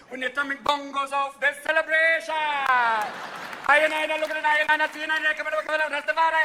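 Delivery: a stoned Rasta holding forth in Jamaican; Jamaican Rasta accent. Retold or imitated. Rasta voice holds.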